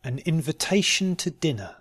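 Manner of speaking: "An invitation to dinner" slowly and carefully. Shown as a demonstration. Teacher giving learners a sentence to try, slowly. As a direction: take your time over "An invitation to dinner". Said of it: "first slowly and then".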